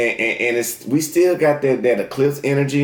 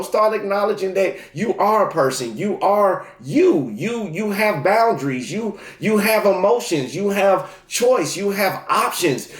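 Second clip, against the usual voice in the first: higher pitch, punching "you" and "have" each time; emphatic affirmation; 6 semitones higher than usual. Real, not acted. Reader urging Virgo to own their choices, emphatic. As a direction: drive home each "you have" statement, lifted and spaced out.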